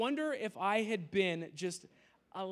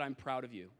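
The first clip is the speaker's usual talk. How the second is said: gentle praise; 6 semitones lower, 4 dB quieter than usual. Retold or imitated. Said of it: "wish that I had said".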